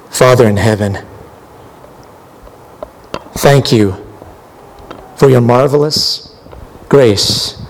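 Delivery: closing prayer. Real, not acted. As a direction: pray it over them.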